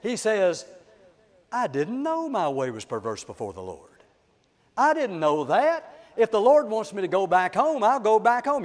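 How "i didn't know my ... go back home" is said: lightly acted whining excuse; whiny, wheedly. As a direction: wheedle a little, pitch climbing as the pleading goes on. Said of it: "with a whiny, wheedly voice".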